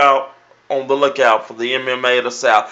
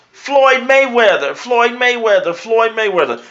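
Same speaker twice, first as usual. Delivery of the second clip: mocking the hype crowd; 7 semitones higher than usual. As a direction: imitate fans who parrot the hype. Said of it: "here it goes".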